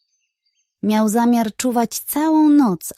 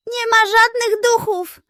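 firm, much higher detective voice; 12 semitones higher, 4 dB louder than usual. Acted. Detective firmly tells villagers there are no ghosts, higher firm voice. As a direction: lay it down flatly, no room for argument. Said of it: "powiedział Chrumpciok stanowczo".

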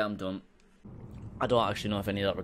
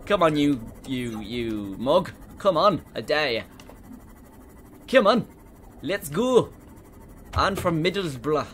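loud, higher challenge shouts; taunting dare; 4 semitones higher, 5 dB louder than usual. Real, not acted. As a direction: goad the monster with bravado. Daring the Reaper to come.

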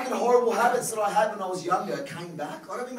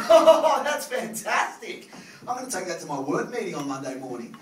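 delighted gush; 6 dB louder than usual. Retold or imitated. Delighted front-row woman.

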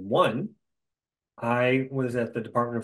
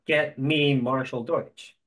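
demanding boss; much slower than usual. Retold or imitated. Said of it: "Banging the table".

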